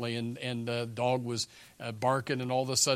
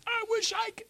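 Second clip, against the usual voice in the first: high, longing angel voice; wistful angels. Retold or imitated. Angels envying the one preaching angel, wistful. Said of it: "the angels are just sitting there going".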